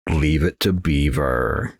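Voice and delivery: slow, drawn out with a rising lilt; odd drawn-out line. Pretend. Gamer blurting a TV title, slow and sing-song. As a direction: stretch it out in a strange sing-song. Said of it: "Why did I say it like that?".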